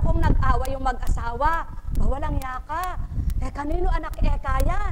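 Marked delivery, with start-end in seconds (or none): 1.9-4.9 mock quarrel. Quarrelling couple acted out.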